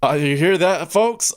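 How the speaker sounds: showman voice. Pretend. Addressing viewers in a put-on voice.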